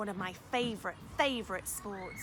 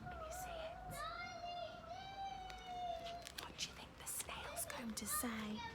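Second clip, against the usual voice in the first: hushed; 10 dB quieter than usual. Real, not acted. Hushed question to children.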